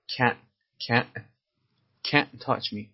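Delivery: can't with the final t swallowed into a glottal stop; can't ending in a glottal stop, no t; dropped final t. Shown as a demonstration. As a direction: say can't with a catch instead of the t.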